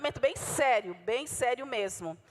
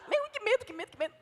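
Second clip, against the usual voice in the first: mock scared hyena; 8 semitones higher than usual. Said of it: "parece aquela hiena que ri e se mija".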